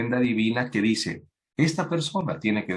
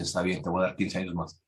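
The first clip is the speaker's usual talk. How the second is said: lower, softer calm reply; lightly voiced God; 4 semitones lower, 5 dB quieter than usual. God answers the weeping king, lower and softer. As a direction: grant it gently from above. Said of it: "El Señor dice".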